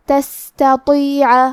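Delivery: تستطيع very slow, seen breathy and weak; hams on seen. Shown as a demonstration. Teacher shows hams on تستطيع, very slow. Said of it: "تو ہم یہ کلمہ کو ایسے پڑھیں گے".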